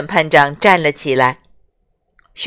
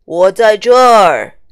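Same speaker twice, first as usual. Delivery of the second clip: leisurely; 8 dB louder than usual. Acted. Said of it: "大象悠闲的声音".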